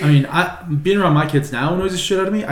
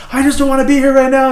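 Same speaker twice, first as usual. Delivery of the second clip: high, loud panicked whine; squealing mock distress; 11 semitones higher, 6 dB louder than usual. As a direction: play the aunt losing it over a bee. Aunt panicking at bee.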